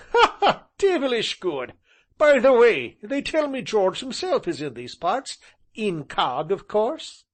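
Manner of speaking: high, loud gleeful laughter; laughing delight. Acted. Tall gentleman laughing and hinting at George. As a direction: chuckle through the gossip. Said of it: "laughing and shaking his head".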